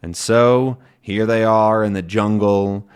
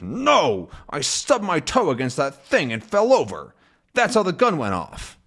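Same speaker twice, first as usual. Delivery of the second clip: lightly raised voice, sheepish explanation; voicing the captain; 5 semitones higher than usual. Captain explains the accident, lightly voiced and sheepish. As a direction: play the captain owning up. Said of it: "and then he says".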